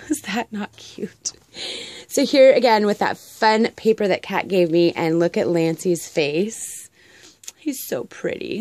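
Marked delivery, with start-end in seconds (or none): 0.1-1.3 whispered aside. Real, not acted. 7.6-8.6 cooing whisper. Real, not acted. Cooing over cat photo.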